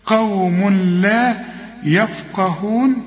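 slow قوم لا يفقهون, tanween merged; slow recitation. Shown as a demonstration. Teacher models the phrase, slow. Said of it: "خطأ".

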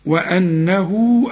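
very slow وأنه with the waw stretched to four beats; long madd. Shown as a demonstration. Teacher demonstrates the long madd, very slow. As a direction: drag the vowel of وأنه out long. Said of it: "فوق الواو شرط عريضة".

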